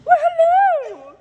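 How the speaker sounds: high, slow sing-song hello; a high, stretched, charmed hello; drawn-out hello. Real, not acted. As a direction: coo it out, high and slow, delighted. Greeting her own glowing skin.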